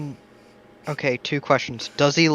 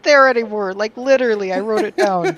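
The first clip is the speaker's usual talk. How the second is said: high, loud frustrated complaint; exasperated; 9 semitones higher, 5 dB louder than usual. Real, not acted. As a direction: protest the lost notes. Frustrated about lost notes.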